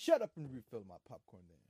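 loud comic command, punched at the start; big burst up front, then falling away; mock bossy order. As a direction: order them about in jest. Mock order quoting show title.

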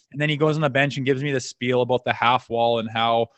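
ordinary delivery

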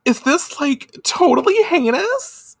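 high, bubbly slang; valley girl voice. Retold or imitated. Brand girls huddling scared, high valley-girl chatter. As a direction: play a giddy gyaru girl. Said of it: "Naruru is like".

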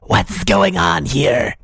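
slow, drawn-out lizard creature voice; lizard man voice. Acted. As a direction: voice a lizard professor. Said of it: "your lizard man voice".

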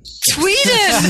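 high, loud shout; excited shout. Real, not acted. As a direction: shout the correction, delighted. Correcting the mispronunciation.

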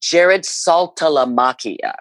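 slow ballpark announcer call of "Jared Saltalamacchia", each syllable drawn out. Shown as a demonstration. Announcer asked her favorite name, slow ballpark call. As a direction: roll "Saltalamacchia" out slowly like over the stadium speakers. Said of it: "I get this question a lot".

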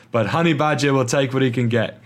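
slipping into a mock Cockney accent. Host voicing Ricciardo slipping into mock Cockney accent. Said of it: "going into my Cockney accent".

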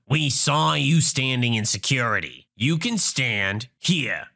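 lightly voiced accusing Karen; accuse, drawing out the last words; entitled mother. Entitled mother tells injured traveler to stand, mildly haughty. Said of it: "Entitled mother".

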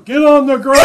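half-strength mock shout of a command; mock yell. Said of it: "he's yelling".

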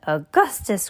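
usual speaking voice

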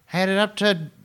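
cartoon neighbor at the end of his rope; slow, rising to a high exasperated peak; Flanders, fed up. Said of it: "Flanders has".

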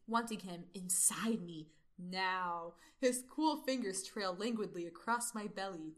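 sultry narrator. Acted. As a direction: draw it out seductively. Continues the erotic reading, slower.

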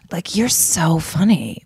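langsam, beschwipst schwärmend; slow tipsy gushing. Real, not acted. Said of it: "I'm a little tipsy".

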